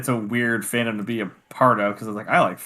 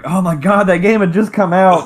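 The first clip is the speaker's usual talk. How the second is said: high, loud excited exclaim; 8 semitones higher, 9 dB louder than usual. Retold or imitated. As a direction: gush about the new game. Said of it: "I'm like".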